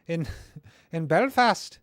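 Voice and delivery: "Belfast" said slowly in a hammed-up Belfast accent, pitched high; mock Northern Irish accent. Host laughing at his own Belfast accent. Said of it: "I'm no good at doing accents".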